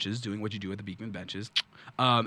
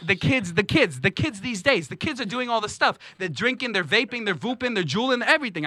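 worked-up ranting complainer, higher and louder; Angry Ashvin; 10 semitones higher, 6 dB louder than usual. Acted. Angry comic character griping to the audience about the city, ranting. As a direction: rant like an exasperated city crank.

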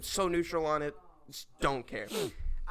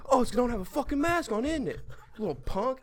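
higher-pitched imitation of an annoyed stranger; mock heckling; 8 semitones higher than usual. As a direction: mockingly imitate a man picking a fight. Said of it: "He's still, like, yelling at you".

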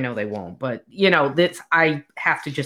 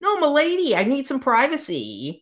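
prim lady voice; 8 semitones higher than usual. Retold or imitated. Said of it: "She's like".

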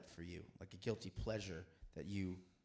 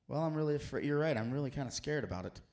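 higher, louder mock-frightened Paul; mock scared; 4 semitones higher, 5 dB louder than usual. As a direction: play Paul as if he were scared, hammed up. Paul voiced as fearful.

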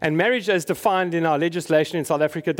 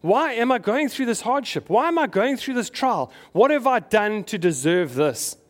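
mock anguished questions, pitched higher; pleading lament; 5 semitones higher than usual. Believer in a hard season asking God why, higher plaintive whine. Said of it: "you look to God and you think".

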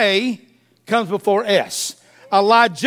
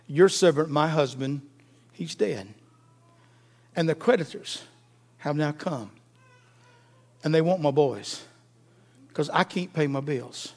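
hushed widow's plea; 7 semitones lower, 9 dB quieter than usual. Retold or imitated. Widow's plea retold again.

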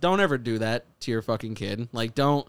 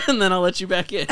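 talking to a puppy; 7 semitones higher, 5 dB louder than usual. Retold or imitated. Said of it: "like a little puppy".

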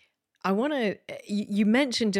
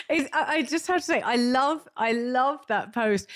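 laughing; 5 semitones higher, 4 dB louder than usual. Real, not acted. Host laughing, delighted over video.

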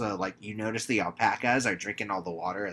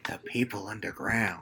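unvoiced-sounding conspiratorial whisper; hushed whisper; 2 semitones lower, 6 dB quieter than usual. Co-host as Ezra revealing who he hears, eerie mock whisper. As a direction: whisper it like a crazy secret. Ezra's secret, acted as a whisper.

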